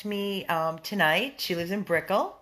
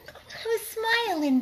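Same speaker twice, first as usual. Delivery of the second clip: laughing; 14 semitones higher than usual. Real, not acted. Laughing at herself.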